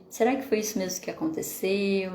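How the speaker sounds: calm, inviting question; gentle questioning. Shown as a demonstration. Mother gently asks child what really happened. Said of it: "Mas sim de fazê-la pensar".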